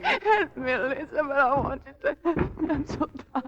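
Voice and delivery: broken, weepy pleading; exhausted wife begging her maid for help, tearful; tearful plea. Acted. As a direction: beg for help, near tears.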